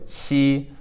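si high, level and hissed; pinyin X demo. Shown as a demonstration. Teacher showing pinyin X, demonstrating si. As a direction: hold si, hissing between sh and s. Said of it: "kind of like a hiss".

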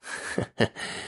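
low-key, quiet snicker before answering; soft chuckle. A narrator's reading. Fox spirit asked where it lives, soft chuckle first. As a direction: chuckle softly to yourself.

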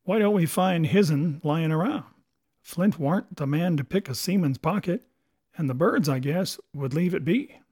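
suspicious pirate; puzzled pirate sailor. Acted. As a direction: puzzle it out like a seaman. Another pirate wonders.

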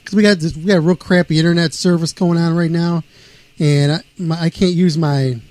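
phone audio cutting out; breaking up over the phone; clipped phone line. Real, not acted. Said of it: "you're cutting out".

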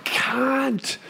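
sudden high yell of the swear; a real burst of frustrated screaming; retold scream. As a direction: shriek it out like the footage is gone. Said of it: "and I just screamed".

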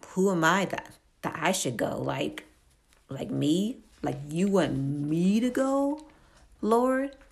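a hint of Moses in disbelief, pitch climbing to a squeak on Lord; incredulous Moses. Preacher imitating Moses' excuse to God, incredulous. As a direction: play Moses protesting, unable to believe it's him. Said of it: "Moses' first excuse is like".

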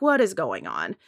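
low, soft doubtful question; quietly suspicious, not buying it; skeptical. Retold or imitated. Flight attendant recalls doubting his apology, low and skeptical. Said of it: "looking at him skeptical".

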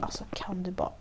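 hushed retold complaint; very soft, voiceless aside; exasperated whisper. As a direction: whisper it under your breath, fed up. Exasperated muttered reaction to mother.

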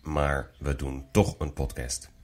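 sick voice. Real, not acted. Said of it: "sorry voor mijn stem vandaag. Ik ben een beetje ziek".

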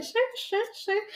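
high, soft prissy shooing; snooty rich people. Retold or imitated. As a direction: shoo them off like a snob. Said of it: "and they're like".

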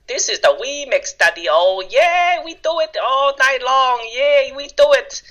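high-pitched hype man in a put-on Asian accent. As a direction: chant it high and playful in a mock Asian accent. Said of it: "I love your accent when you change it up".

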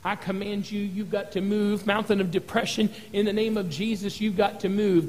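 commanding the mountain in a hushed voice; quiet command. Retold or imitated. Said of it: "say stuff like".

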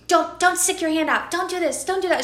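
scolding mother, rising pitch; nagging mom voice; mock yell. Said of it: "she was yelling at her kid".

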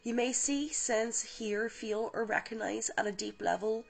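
calm guided visualization read; guided meditation. Acted. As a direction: ease the listener gently into the light. Leads a guided healing meditation.

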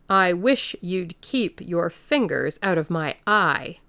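savage protest. Acted. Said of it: "in a tone of savage expostulation".

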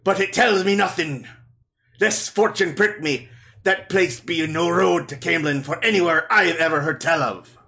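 lightly voiced sea captain; steady pirate lilt. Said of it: "generic, uh, pirate voice".

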